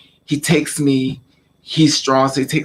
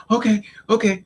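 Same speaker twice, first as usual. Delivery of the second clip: higher-pitched, meek mock agreement; retold scared reply; 7 semitones higher than usual. Scared stepbrother answering the father, timid compliance. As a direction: agree quickly like a frightened child. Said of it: "He's scared".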